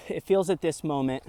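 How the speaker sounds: winded from the stairs, shallow breathing. Real, not acted. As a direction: catch your breath between words. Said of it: "I'm out of breath from".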